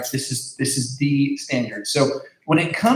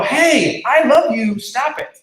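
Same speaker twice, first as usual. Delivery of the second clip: much higher and louder urgent call; parent hollering; 9 semitones higher, 5 dB louder, slower than usual. Retold or imitated. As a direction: call a kid out of the street. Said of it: "you might even holler at them".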